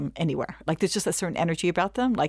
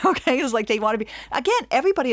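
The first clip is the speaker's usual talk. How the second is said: laughing okay; 6 semitones higher, 3 dB louder, faster than usual. Real, not acted. Sharing the bracha envy joke with the audience, laughing. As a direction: laugh into a high, loud okay.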